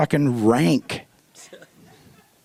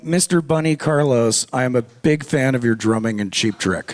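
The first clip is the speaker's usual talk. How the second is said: fan impression; 6 semitones lower than usual.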